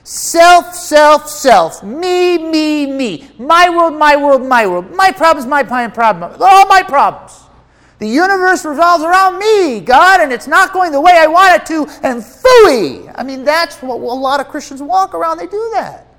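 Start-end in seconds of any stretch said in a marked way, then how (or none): 0.0-1.8 higher and louder, each word struck; hammered repetition. Real, not acted. Preacher hammering the point. 1.8-13.1 high, louder whiny me-me-me voice; mocking whiny believer. Mocking the self-centered believer.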